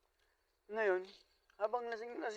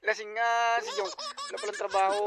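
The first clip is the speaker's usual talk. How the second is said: laughing; 4 semitones higher, 6 dB louder than usual. Real, not acted. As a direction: crack up at the joke. Laughing at own punchline. (tumatawang paliwanag)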